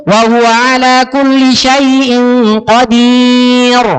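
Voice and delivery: slow recitation, qadir said with rounded pouting lips; pouted qadir. Retold or imitated. Preacher imitates a husband reciting badly. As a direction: drag it out, lips forward on qadir. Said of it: "Kalau bapak sambil baca gitu".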